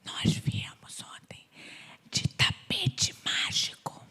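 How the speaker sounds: slow conspiratorial whisper; leaning in to whisper. Pretend. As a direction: whisper it like a secret. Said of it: "eu vou falar baixinho".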